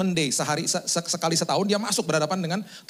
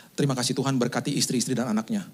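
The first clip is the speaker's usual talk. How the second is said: low, lightly acted pastoral prayer; closing prayer; 5 semitones lower than usual. Host pastor closing service in prayer, lightly imitated solemn prayer. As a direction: imitate a pastor praying, subdued. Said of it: "Gembala sidangnya mau doa tutup".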